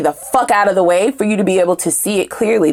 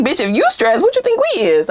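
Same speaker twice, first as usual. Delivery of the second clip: incredulous retort; 4 semitones higher than usual. Retold or imitated. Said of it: "You like".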